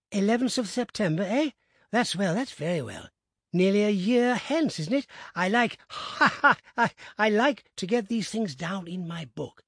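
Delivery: put-on eager host noting the boy's age; gleeful old gentleman. A narrator's reading. Abney questions the boy.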